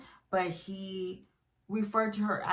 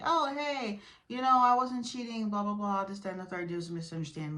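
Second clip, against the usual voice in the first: mock cheater's excuse. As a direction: imitate a cheater's lame excuse, lightly. Mimicking cheaters' lame excuses.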